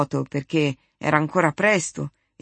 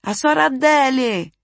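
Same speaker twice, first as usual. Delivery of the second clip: calling out shout; 9 semitones higher, 4 dB louder than usual. A narrator's reading. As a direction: shout for the neighbour to come. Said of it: "gridò di nuovo per il corridoio". (grido di richiamo, alto e forte)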